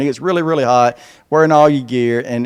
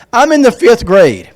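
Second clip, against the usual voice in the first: fifth-grader's voice; 5 semitones higher, 3 dB louder than usual. Acted. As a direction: spell out the words like a careful child. Reading fifth-grader's letter.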